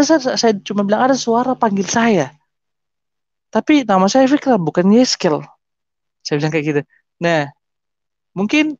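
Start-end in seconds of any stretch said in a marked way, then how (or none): 1.0-5.4 high-pitched retold explanation; bewildered protest. Explaining that a voice called him, high bewildered protest. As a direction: explain it in a raised, puzzled pitch.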